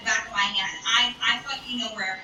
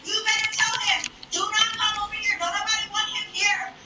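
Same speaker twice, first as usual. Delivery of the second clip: calling out; 8 semitones higher than usual. Retold or imitated. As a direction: shout it so he hears on the phone. Yelling from stall at friend.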